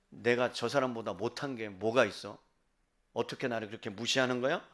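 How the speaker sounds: low, subdued lament to God; acted quiet grievance, pitched well down; pleading complaint. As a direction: voice an aggrieved plea, soft and low. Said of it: "라고 하소연하는 거죠".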